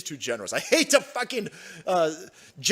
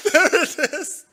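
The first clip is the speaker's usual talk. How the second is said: mock voice; 8 semitones higher, 6 dB louder, slower than usual. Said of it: "repeat in put-on voice".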